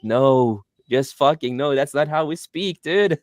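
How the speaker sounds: high-pitched mock outrage; exasperated protest, rising toward laughter; imitated exasperation. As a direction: act out an appalled local, pitch climbing. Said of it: "he hates when people".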